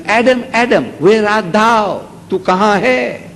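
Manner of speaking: calling out. Retold or imitated. God calling for hiding Adam.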